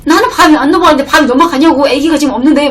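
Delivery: wife mildly scolding husband for eating; mild retold accusing. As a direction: press him, half-heated. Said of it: "남편한테 막 따지기 시작했어요".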